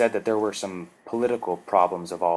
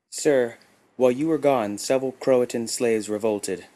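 higher, lightly voiced timid worker; nervous worker; 4 semitones higher, 4 dB louder than usual. A narrator's reading. Worker bows and reports the revolt to Tagath, nervous. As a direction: report bad news to your master.

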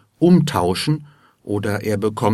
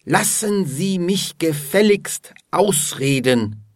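higher-pitched, indignant order; very unfriendly command; 8 semitones higher than usual. A narrator's reading. Alfred orders Dorothea to let him finish, very unfriendly. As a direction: demand it rudely, pitch raised. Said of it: "befiehlt in sehr unfreundlichem Ton".

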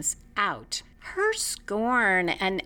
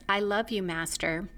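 flat, even robotic monotone; 3 dB quieter than usual. Retold or imitated. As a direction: say it like an emotionless machine. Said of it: "in a very robotic voice says".

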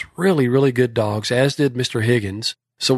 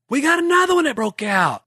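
calling out; 14 semitones higher than usual. Retold or imitated. Yelling out to everybody.

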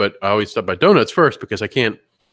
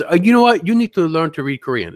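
insistent donut lady; 6 semitones higher, 4 dB louder than usual. Retold or imitated. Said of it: "And she goes".

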